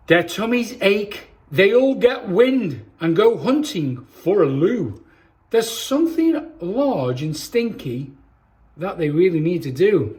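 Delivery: put-on lively storybook reading for kids; reading to children. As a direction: read it like bedtime story time for little ones. Reads picture book to children.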